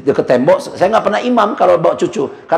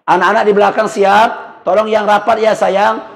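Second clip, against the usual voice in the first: imam announcement to the congregation. Shown as a demonstration. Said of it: "Bapak gini".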